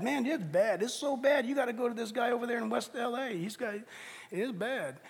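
mock grim verdict. Mocking echo of grim verdict.

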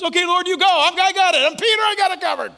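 high, loud breezy promise; overconfident Peter. Acted. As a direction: brush it off, sure of himself. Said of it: "What happens?".

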